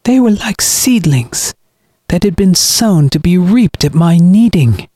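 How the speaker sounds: high-pitched, sanctimonious villain; cold, self-righteous brother. Acted. Brother explains the deaths to his sister, self-righteous. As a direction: preach coldly down at the victim.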